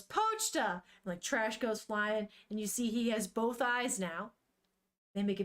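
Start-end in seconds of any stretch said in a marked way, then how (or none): 0.0-0.7 high, excited yell of the name. Retold or imitated. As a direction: yell the dog's name in joy. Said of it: "and yells".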